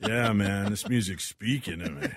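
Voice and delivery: a hint of blissed-out stoner; pretend stoned. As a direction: play mellow and a little high. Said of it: "reliving my high moment".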